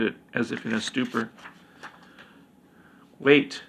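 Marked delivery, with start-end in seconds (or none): 3.2-3.6 insistent. Acted. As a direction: cut in to stop the killing. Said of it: "insisted the queen's aide".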